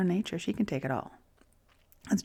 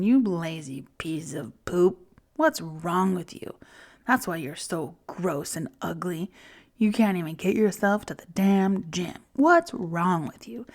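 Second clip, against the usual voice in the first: harsh inner critic; 3 dB louder than usual. Pretend. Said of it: "Like, that voice".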